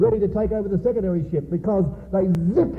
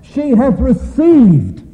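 full-force preaching; 9 dB louder than usual. Acted. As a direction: boom the scripture out to the congregation. Opening scripture preached at full force.

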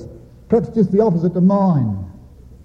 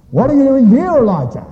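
loud, high, demanding question; stern challenge; 7 semitones higher, 3 dB louder than usual. Acted. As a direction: thunder it at Elijah as a rebuke. God's first question, contrasted with second.

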